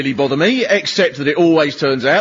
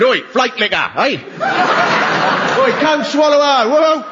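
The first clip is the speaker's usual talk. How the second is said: mock jeering; 7 semitones higher than usual. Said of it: "people shouted".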